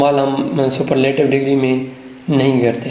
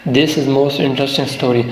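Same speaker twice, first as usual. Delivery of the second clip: He saw most wonderful sight read very slowly; slow dictation; much slower than usual. Shown as a demonstration. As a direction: dictate each word to students. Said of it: "sentence کو دے دیتے ہیں". (جملہ آہستہ آہستہ لکھوانا)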